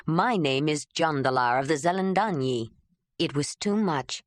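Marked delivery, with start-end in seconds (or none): 0.1-2.7 a hint of a lower man's voice introducing himself; lower, plain introduction; lightly voiced Jondalar.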